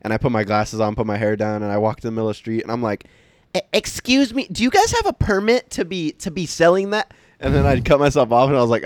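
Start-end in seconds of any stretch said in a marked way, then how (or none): 3.5-7.1 much higher prissy Karen voice. Pretend. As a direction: play an entitled Karen confronting vendors. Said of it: "I kept putting on my Karen glasses".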